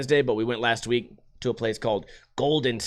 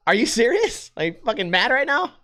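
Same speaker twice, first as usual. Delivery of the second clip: higher-pitched, incredulous questioning; retold disbelief; 9 semitones higher than usual. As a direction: replay your stunned reaction, voice pitched way up. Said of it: "I was so mind fucked".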